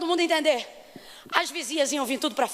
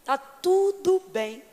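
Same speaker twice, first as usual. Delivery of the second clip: serene calm; much slower than usual. Retold or imitated. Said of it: "você percebe serenidade".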